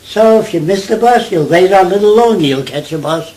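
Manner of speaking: put-on sing-song it like a Jewish kid from New York; New York Jewish accent. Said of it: "The Jewish kids who talk like this".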